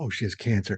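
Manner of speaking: dropped right down to a hushed, very low voice. Imitating how an older generation said the word cancer: hushed, very low voice. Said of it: "They would say it real low".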